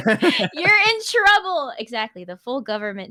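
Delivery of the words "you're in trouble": higher, slow mock scolding; teasing warning. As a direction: draw it out like a playful threat. Mock warning to named pet.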